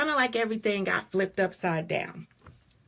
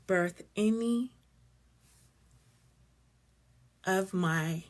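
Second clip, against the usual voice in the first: deep and deliberate; slower than usual. Real, not acted. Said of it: "I'm being really deep".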